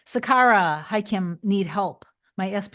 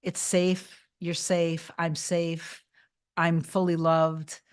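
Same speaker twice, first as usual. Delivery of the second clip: soothing self-talk. Shown as a demonstration. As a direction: tell yourself you are safe, gently. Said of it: "you wanna tell yourself".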